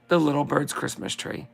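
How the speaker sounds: slow, sing-song verse reading; slow Christmas card recital; poem reading. Acted. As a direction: read it like a greeting card poem, unhurried. Reads Christmas poem aloud.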